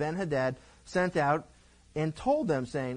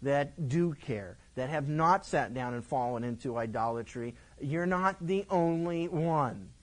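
slow, steady reassuring voice; a hint of God's calm reply; calm correction. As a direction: gently set him straight. God answers Elijah.

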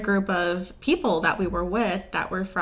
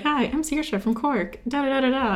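imitated Irish accent; 5 semitones higher than usual. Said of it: "this Irish accent".

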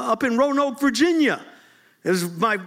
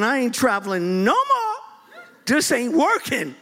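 broken; 2 semitones higher than usual. Retold or imitated. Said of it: "I was broken".

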